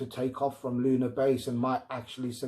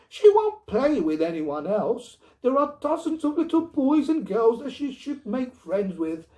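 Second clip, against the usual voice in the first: higher, louder insistent plea; pleading wife; 9 semitones higher, 6 dB louder than usual. Acted. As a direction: push him to agree. Wife pleads about daughter.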